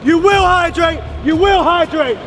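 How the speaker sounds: fast, barked drill commands; drill shout. Real, not acted. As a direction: shout orders at recruits. Instructor shouting orders.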